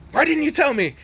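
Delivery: high-pitched scandalized squeal; indignant demand. Retold or imitated. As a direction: blurt it out in mock betrayal. Friend demands the gossip, acted.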